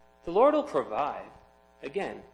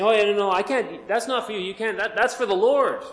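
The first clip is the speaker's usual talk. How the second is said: mock pious excuse; 6 semitones higher, 5 dB louder than usual. Greedy people excusing themselves.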